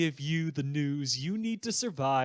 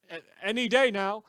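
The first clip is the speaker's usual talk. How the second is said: "any day now" fast, higher and louder, as a sarcastic aside; mocking quote; 7 semitones higher, 5 dB louder, faster than usual. Radio host quoting the government's empty promise, mocking. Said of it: "another recording of".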